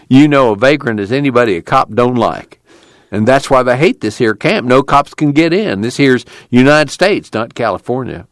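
knowing tubby man. Acted. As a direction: explain the obvious with a hint of grievance.

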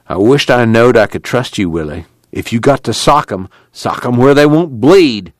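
suspicious committee leader. Acted. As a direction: caution Willie with a hint of suspicion.

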